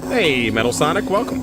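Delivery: bright high welcome; cheery greeting. Real, not acted. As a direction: sing out a welcome. Greeting a viewer.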